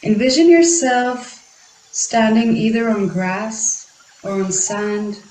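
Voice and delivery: unhurried meditation guidance with long pauses; guided meditation. Acted. Guiding listeners to feel the ground beneath their feet, guided meditation. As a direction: guide them gently inward, leaving space between phrases.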